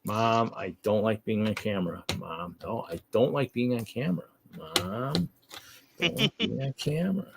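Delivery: soft, lightly voiced whiny dog; quiet pleading pet voice. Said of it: "so we can truly hear what he's saying".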